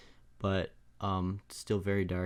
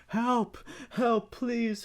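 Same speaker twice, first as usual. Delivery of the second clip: high distant cries for help; from another room; 4 dB louder, much slower than usual. Acted. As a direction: shout it from the next room. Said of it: "from the other room".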